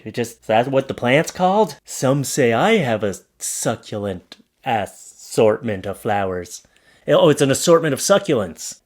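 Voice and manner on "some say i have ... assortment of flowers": slow, low put-on voice; mock suave boast. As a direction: draw the pun out slowly and low. Joking boast with pun on sign.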